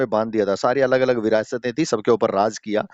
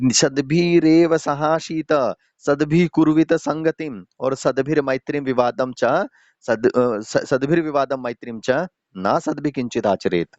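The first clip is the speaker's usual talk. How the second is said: shloka recitation. Acted. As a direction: chant it out word by word for the students. Teacher recites Sanskrit shloka.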